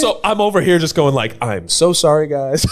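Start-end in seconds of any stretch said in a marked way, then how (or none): 1.4-2.6 higher mock-apologetic plea. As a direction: apologize profusely, half-joking. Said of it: "Like, I'm just apologizing".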